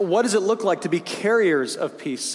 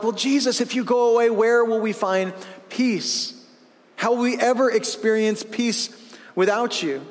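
anxious disciples; 5 semitones higher than usual. Retold or imitated.

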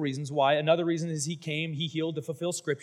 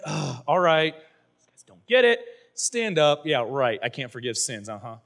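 sarcastic Jesus; 3 dB louder than usual. Retold or imitated. Sarcastic Jesus answering crowd.

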